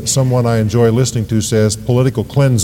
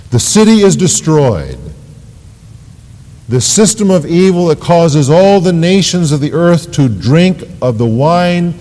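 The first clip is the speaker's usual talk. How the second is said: raised, emphatic preacher's delivery; preaching with force; 5 semitones higher than usual. Real, not acted. Preacher declares the evil system destroyed, forceful preaching. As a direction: drive home the judgment from the pulpit.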